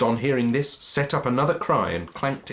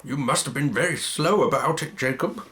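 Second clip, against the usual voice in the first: businesslike; 5 semitones higher than usual. Acted. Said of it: "in a businesslike manner".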